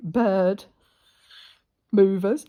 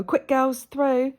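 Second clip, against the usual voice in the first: calling the hens; 5 semitones higher, 7 dB louder, slower than usual. Retold or imitated.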